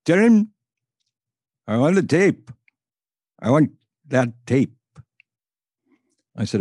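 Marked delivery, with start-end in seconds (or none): 0.0-4.7 much higher and louder mock demand; caller's voice on the phone. Mysterious caller demanding the tape for Earl, mock insistent foreign voice. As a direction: insist on the tape like a stubborn stranger. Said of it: "Long silence".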